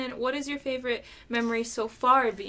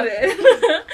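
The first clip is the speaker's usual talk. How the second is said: laughing; 7 semitones higher, 10 dB louder than usual. Real, not acted. Laughing at the makeup joke.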